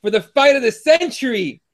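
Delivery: lightly hyped fight announcer; emphatic live show intro; show-opening announcer. Acted. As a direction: open the show like a ring announcer, building to the fight.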